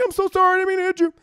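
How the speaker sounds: high, loud apology like dubbed-in dialogue; mock ADR apology. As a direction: call it out as an added line, hammed up. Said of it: "he's like, A D R".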